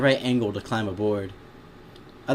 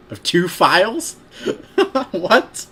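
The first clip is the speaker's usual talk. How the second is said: slow, rising, louder disbelief; higher, incredulous query; real bafflement; 8 semitones higher, 6 dB louder, slower than usual. Real, not acted. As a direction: question the misprint in amused confusion. Reader baffled by a typo.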